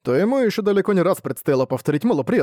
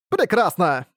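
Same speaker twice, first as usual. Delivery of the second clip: giggling vampire; 4 semitones higher, slower than usual. Acted. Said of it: "хихикнул вампир".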